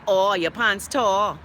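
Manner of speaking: slow, drawn-out mock taunt; childhood taunt. Host recalls what kids used to say, slow teasing. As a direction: stretch it out like a teasing kid. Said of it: "you used to say".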